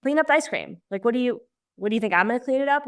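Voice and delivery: mock scolding. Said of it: "instead of being like".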